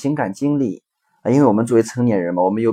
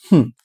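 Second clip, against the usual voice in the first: annoyed huff; 2 semitones higher, 4 dB louder than usual. Retold or imitated. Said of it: "女儿就很生气说".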